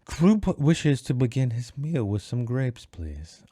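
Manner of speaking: slow, put-on character voice; hammed-up third-person pomposity; Kroop. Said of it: "I changed all these voices".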